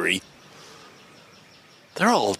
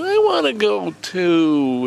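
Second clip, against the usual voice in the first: put-on little kid; 6 semitones higher, 3 dB louder, slower than usual. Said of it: "like a little kid".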